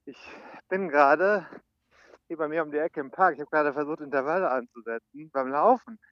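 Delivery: leicht außer Atem beim Joggen; beim Laufen. Real, not acted. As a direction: spricht nebenbei im Laufschritt. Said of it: "Ich laufe gerade". (während des Laufens sprechen)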